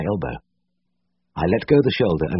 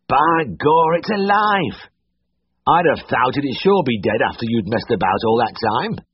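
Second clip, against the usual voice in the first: put-on much higher, astonished old Yorkshire uncle; amazed old uncle; 7 semitones higher, slower than usual. A narrator's reading. Uncle amazed the calf lives, higher and astonished. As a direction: blurt out the surprise.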